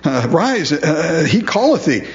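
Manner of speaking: lightly hammed-up comforting, high-pitched; mock encouragement. Preacher imitates the crowd calling the blind man, mock encouragement. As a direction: put on sudden sweetness with a high lilt. Mocks crowd suddenly turning kind.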